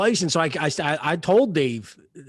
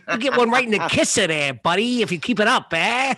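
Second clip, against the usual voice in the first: lightly voiced old-time bartender; a hint of a tough old barkeep; 3 semitones higher than usual. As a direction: play an old bartender hailing a customer. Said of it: "talk to you like an old bartender".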